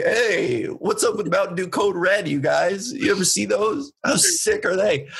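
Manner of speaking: lightly voiced bro hyping the crowd; bro-y stage act. Comedian greeting his audience with his set, bro-y. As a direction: play up a dude-bro opener a little. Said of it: "I finished my broy".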